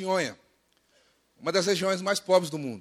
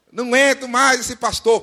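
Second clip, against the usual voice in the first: loud, exasperated parody; mock complaining; 6 semitones higher, 10 dB louder than usual. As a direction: moan about it theatrically. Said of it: "tudo que você não reclamasse".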